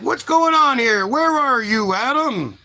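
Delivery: lightly hammed-up demand to show yourself; mock-stern God calling. God calls out, getting mad.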